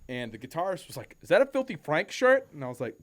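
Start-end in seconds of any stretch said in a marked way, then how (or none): 1.2-2.5 loud, high-pitched Australian question; excited imitation of an Australian; Australian accent. Australian guitarist spotting a fan's shirt, Australian accent. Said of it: "I cannot do an Australian accent".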